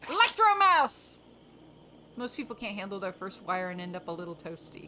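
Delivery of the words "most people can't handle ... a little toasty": spirit voice. Acted. Voicing the spirit Lumion.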